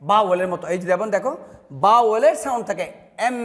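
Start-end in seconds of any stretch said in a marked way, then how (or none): 3.3-3.4 letter name এম sounded out with a held m; teacher demonstrating the sound of এম; pronunciation demo. Shown as a demonstration. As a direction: say এম on its own, drawing out the closing hum. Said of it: "এম বলার সময়".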